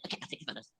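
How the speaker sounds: low, barely voiced mumble; mock grudging surrender. Retelling her friend giving in about photos, quiet grudging mumble. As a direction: give in under your breath.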